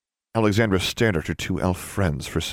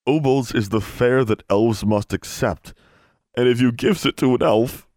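higher, mounting distress; voice cracking; 5 semitones higher, 3 dB louder than usual. A narrator's reading. Elf explaining the fare he must accept, voice cracking. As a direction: strain upward as if near tears. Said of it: "Then the speaker's voice cracked".

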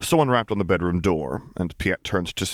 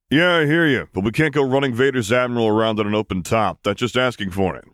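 Solo voice; 4 semitones higher, 4 dB louder than usual. Acted. Solo's voice, coaxing.

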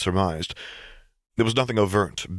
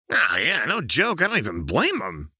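high, giggly cackle through the words; cackling Jinx; 7 semitones higher than usual. A narrator's reading. Chained Jinx shrugging off her execution, cackling. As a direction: laugh it off like a lunatic. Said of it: "Jinx said with a cackle".

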